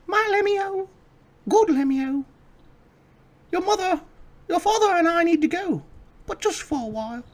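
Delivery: very high falsetto mother. Acted. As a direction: coo it like a doting mother. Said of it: "they both say".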